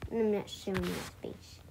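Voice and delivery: hushed whisper. Real, not acted. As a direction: whisper it as an aside. Whispered aside about face.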